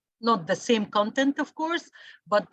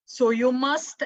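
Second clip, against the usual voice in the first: "must" pushed out firmly, a bit louder; stress on must; 3 semitones higher, 4 dB louder than usual. Shown as a demonstration. Teacher warning the class about homework, stressing "must". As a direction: lean on "must" so the class hears it. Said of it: "I emphasize on the word must".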